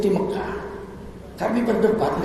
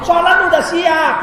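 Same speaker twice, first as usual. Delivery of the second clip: loud, slow, laughing shout; high and loud mock exclamation; 10 semitones higher, 7 dB louder than usual. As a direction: throw it out with a laugh. Preacher mocking, shouting.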